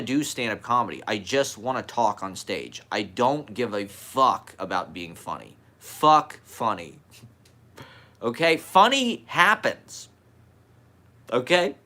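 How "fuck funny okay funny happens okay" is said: guru voice. Pretend. Preaching mock wisdom before "as a guru.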